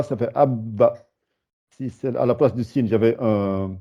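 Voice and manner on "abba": "abba" with lips held on the b; doubled b. Shown as a demonstration. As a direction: hold the b of "abba" before releasing. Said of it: "Si ça fait un ba".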